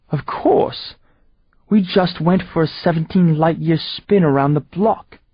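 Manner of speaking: high, dripping sarcasm; mock the question; villain sneering sarcasm; sarcastic villain. Seth sarcastic reply.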